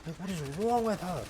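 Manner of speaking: high-pitched exasperated mock rant; retold screaming. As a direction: complain at the screen in comic disbelief. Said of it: "start screaming at the T V".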